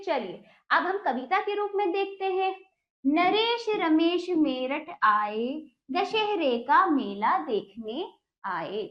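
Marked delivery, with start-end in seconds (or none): 3.0-8.8 slow, sing-song poem reading; poem recitation. Shown as a demonstration. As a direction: recite it slowly for children. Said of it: "teacher recites the poem".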